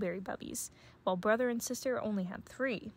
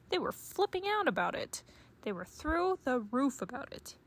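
exasperated exclamation; 4 semitones higher than usual. Acted. Papa exaggerating cubs' craze.

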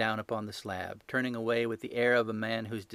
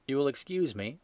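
bland; 4 semitones higher than usual. Acted. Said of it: "said Sherlock Holmes blandly".

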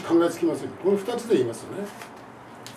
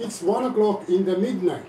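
Japanese-English phrasing; slower than usual. Retold or imitated. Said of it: "典型的なジャパニーズ・イングリッシュ".

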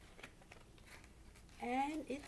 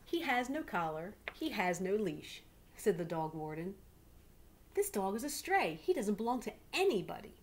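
louder, official warden voice; stern dog warden; 4 dB louder than usual. Acted. Dog warden telling the family Willie is a stray, stern. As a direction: lay down the rule firmly.

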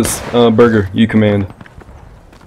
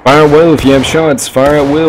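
louder, higher commanding call; calling out orders; 4 semitones higher, 5 dB louder than usual. Real, not acted. Player lets the line fire, called out loud.

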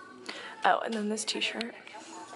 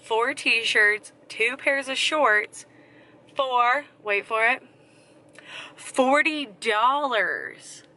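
louder, building excitement, stretched "forty dollars"; excited haul reveal; 2 semitones higher, 5 dB louder, slower than usual. Real, not acted. Telling viewers her thrift haul cost, excited and louder. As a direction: hype up the bargain total like a big reveal.

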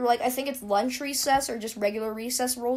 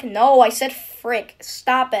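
exasperated retort; 8 dB louder, slower than usual. Retold or imitated. Retold defence against accusers.

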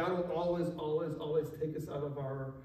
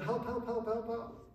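understated, higher repeated plea; imitated cry for help; 4 semitones higher, 3 dB quieter than usual. Mother crying out to Jesus unanswered, understated imitated plea. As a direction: echo a desperate cry without shouting. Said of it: "she cries out".

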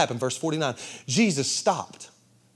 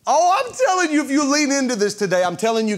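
fired-up preaching; 8 semitones higher, 4 dB louder than usual. Real, not acted. Preacher fires up congregation.

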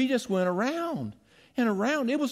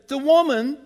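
high, loud whiny Adam passing the blame; Adam blaming; 4 semitones higher, 5 dB louder than usual. Retold or imitated. Preacher voices Adam shifting the blame onto the woman, high and whiny. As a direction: whine it like a guilty man pointing the finger. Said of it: "The man said".

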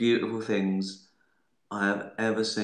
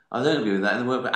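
fast, louder put-on coworker voice; Hitchmo voice; 6 dB louder, much faster than usual. Imitating a coworker's catchphrase for fans, fast and loud. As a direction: rattle it off like the office jobsworth. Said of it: "They used to talk like that".

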